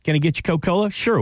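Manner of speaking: waiter. Acted. Acting a Southern waiter exchange.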